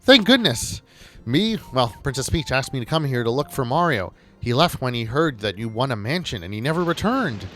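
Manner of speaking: mildly hammed-up anxious begging; distressed Toad, toned down. Reading Toad's dialogue after dropping squeal.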